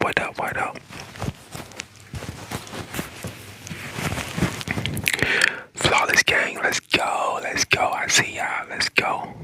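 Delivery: soft breathy ASMR whispering. Acted. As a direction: whisper close to the mic. ASMR whispering on TikTok live.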